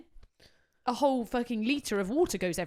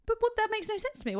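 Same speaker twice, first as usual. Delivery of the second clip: exasperated; 13 semitones higher than usual. Real, not acted. Ranting about wedding orders.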